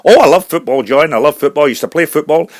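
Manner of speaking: keen Scottish brogue; Scottish accent. Acted. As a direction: chat keenly as a Scottish singer. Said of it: "a Scottish singer".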